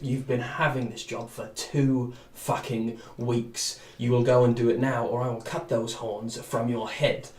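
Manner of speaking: a slow, lightly voiced threat; menacing thug boss. Gang boss threatening his lackey, slow and menacing. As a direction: lean in and threaten him slowly. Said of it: "And he kind of looks and goes".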